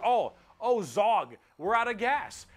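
a hint of a worried orc henchman; orc underling. Orc in the back to his driver, lightly voiced orc underling. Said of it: "some orc behind you is like".

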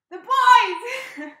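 loud, high squeal of the words. Real, not acted. Fan squealing the phrase.

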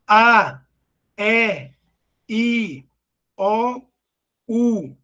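"A, E, I, O, U" one at a time, from open to closed; articulated vowel demo. Shown as a demonstration. Teacher showing students mouth openness, "A, E, I, O, U" articulated singly. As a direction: sound out each of "A, E, I, O, U" separately, punching the A. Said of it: "Preste atenção na minha boca agora".

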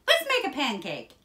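high, loud eager cry; excited shout. A narrator's reading. Jack urges his mother to start cooking, shouting. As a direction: call it out like an eager boy. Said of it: "shouted Jack".

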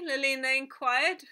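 usual speaking voice

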